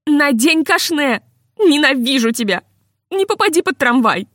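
wife calling after him from the stairwell; shouted after him; shouting down the stairs. A narrator's reading. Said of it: "прокричала".

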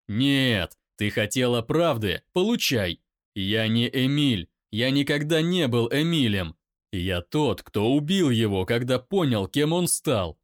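loud shout back; loud pained shout; angry shout. Acted. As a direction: roar it in pain. Daimon shouts truth.

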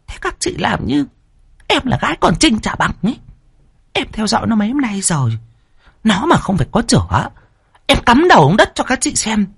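high, fast, insistent woman; third wife voice. A narrator's reading. Third wife insisting to her sisters, indignant. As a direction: swear to it, indignant.

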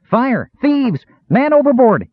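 very high-pitched cries for help; yelled alarm. A narrator's reading. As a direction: raise the alarm in separate, piercing cries. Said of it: "he yelled, adding any other rousing alarm".

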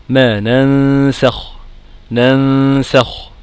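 very slow "ننسخ" with a thin, light nasal hum; light ghunna. Shown as a demonstration. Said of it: "رققت". (غنة مرققة في "ننسخ")

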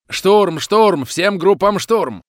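very high, very loud screamed order; hysterical yell. Acted. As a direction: scream the assault order in panic. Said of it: "истерически заорала".

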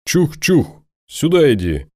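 high calls, then beckoning; high luring call. Acted. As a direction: shout high to draw it over. Luring the creature.

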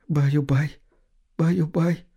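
soft tearful whisper; whispered lullaby. A narrator's reading. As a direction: hush it like a lullaby through tears. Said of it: "шептала женщина сквозь слёзы". (шёпот сквозь слёзы)

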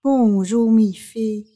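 sweet as pie, hiding her scheme; sweetest voice. Acted. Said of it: "avec sa voix la plus douce".

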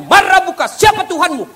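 high, loud interrogating angel; stern angel asking. Acted. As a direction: boom the grave question down from above. Angel questions a bad Muslim. (malaikat bertanya dengan suara tinggi dan keras)

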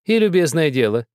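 put-on high, pressing old woman's voice; insistent old woman. A narrator's reading. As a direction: insist like a stern grandmother. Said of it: "согласилась бабушка, подмигивая".

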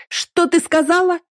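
very high, slow shriek. Acted. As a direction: squeal it in outrage. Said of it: "визжит та".

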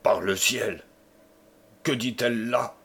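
exclamation d'un vieux seigneur stupéfait. Acted. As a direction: indignation étonnée. Le connétable stupéfait. (le connétable stupéfait devant la femme)

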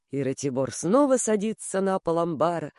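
ordinary delivery, nothing marked

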